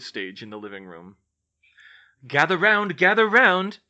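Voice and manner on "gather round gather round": put-on loud, high showman's call to the kids. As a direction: summon the crowd, big and bright. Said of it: "Fred called".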